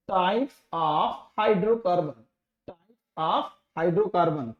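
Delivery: drawn-out words with pauses between; slow dictation. Shown as a demonstration. Teacher writing a topic heading for students, slow dictation. Writes the heading while saying it.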